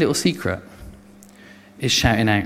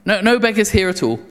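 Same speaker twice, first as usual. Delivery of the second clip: higher, hurried denial; panicked denial; 5 semitones higher than usual. Acted. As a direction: cover it up fast, pitched up. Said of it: "They go".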